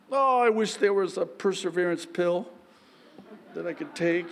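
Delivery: normal talking voice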